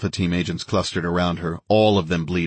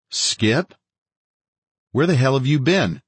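surprised; 7 semitones higher than usual. A narrator's reading. Surprised at Skip's arrival.

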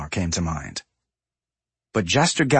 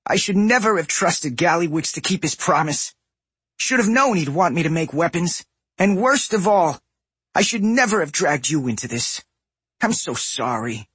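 remorseful goblin apology; sorry and miserable; goblin man, miserable; 6 semitones higher than usual. A narrator's reading. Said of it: "more miserable than he'd ever been".

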